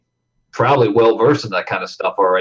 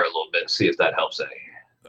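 whispering; 7 semitones lower, 10 dB quieter than usual. Real, not acted. Fiddling with mic wire, aside.

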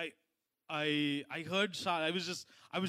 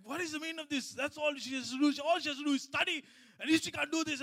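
higher-pitched exasperated rant, not a full shout; retold angry shouting; 5 semitones higher than usual. Father shouting at family about studying, in a higher, exasperated pitch. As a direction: act out losing your temper over homework. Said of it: "I shouted at Leandra, I shouted at Charlene".

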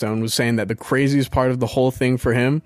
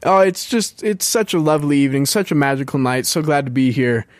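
dreamy celebrity voice. Pretend. Pretending to dodge dress question.

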